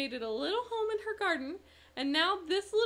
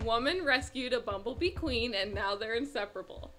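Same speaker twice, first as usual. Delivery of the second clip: "Woman rescued a bumblebee queen" read a little slower and more deliberately; a bit slower. Shown as a demonstration. Asked to repeat the headline slowly for her co-host, a touch slower. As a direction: take your time over each word of the headline. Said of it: "Say it one more time and slowly for me".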